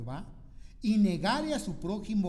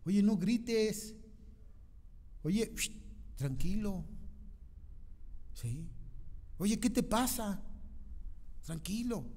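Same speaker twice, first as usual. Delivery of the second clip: soft hushing to an upset husband; soothing hush; 2 semitones higher, 6 dB quieter than usual. Acted. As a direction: settle them down gently. Calming a shouting spouse.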